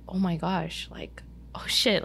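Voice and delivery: whispered shock, slow; realizing God knows her name, whispering; awed whisper. Retold or imitated. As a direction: breathe it out in awe. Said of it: "that moment I was like".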